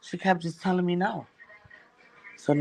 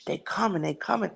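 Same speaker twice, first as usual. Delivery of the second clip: hushed; 6 dB quieter than usual. Retold or imitated. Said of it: "she sounded out of breath".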